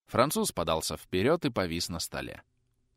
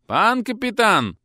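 higher, louder slow call; called from outside; 12 semitones higher, 8 dB louder, slower than usual. A narrator's reading. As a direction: call through the door. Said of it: "крикнули из-за двери".

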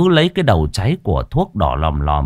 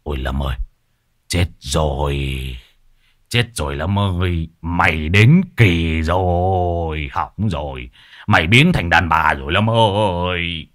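mock whimpering; 2 semitones lower than usual. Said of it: "mếu máo".

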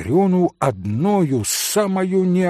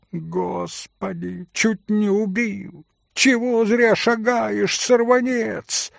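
put-on high squealing old woman's cry; shrill startled old crone, voiced up high; old woman's wail; 7 semitones higher than usual. A narrator's reading. Old servant woman squeals at Mitya who bumped her. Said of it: "Раздался пескливый вой какой-то старушонки".

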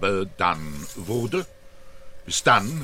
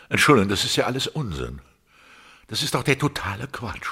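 exasperated; much faster than usual. Acted. Artist rejects his own work.

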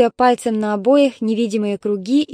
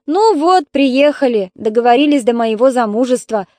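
yelling from the kitchen; 3 semitones higher, 6 dB louder than usual. Acted. Daughter yells at her mother from the kitchen, loud and fed up. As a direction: yell it back from another room. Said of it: "заорала из кухни Светлана".

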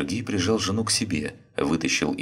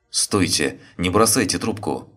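louder, higher desperate shout; 3 semitones higher, 4 dB louder than usual. Acted. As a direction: yell before the line goes dead. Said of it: "закричал Сергей".

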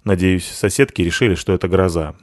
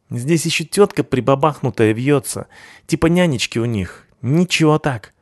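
leering thug voice; 6 semitones higher than usual. A narrator's reading.

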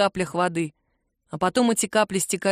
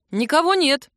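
pleased report; 6 semitones higher, 4 dB louder than usual. A narrator's reading. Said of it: "довольно отрапортовал Макс".

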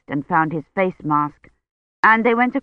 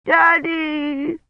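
put-on high little-girl wail of Daddy; childish wail; 10 semitones higher than usual. A narrator's reading. Old woman wails for Daddy as ambulance doors shut, high childish wail. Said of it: "she wailed".

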